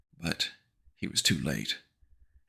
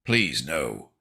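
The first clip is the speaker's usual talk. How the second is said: dry lifeless. Acted. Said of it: "in a dry, lifeless tone".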